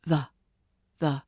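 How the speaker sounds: "the" said as a weak schwa "thuh". Shown as a demonstration. Teacher models the weak schwa in "the". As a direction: clip "the" to a short neutral "thuh". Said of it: "the becomes the".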